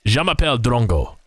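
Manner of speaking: English-accented French, heard as Spanish-sounding; English speaker's French. Shown as a demonstration. Caster trying French for his co-caster, English-accented attempt. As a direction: say it in your best shaky schoolbook French. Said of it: "let's try this one".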